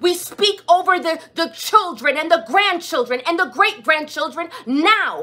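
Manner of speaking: intercessory preaching prayer. Acted. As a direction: declare it like a prayer of command. Prays over the congregation's generations.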